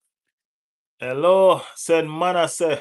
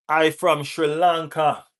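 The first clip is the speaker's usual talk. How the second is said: put-on Sri Lankan accent; 3 semitones higher, 3 dB louder, slower than usual. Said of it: "Listen to my accent".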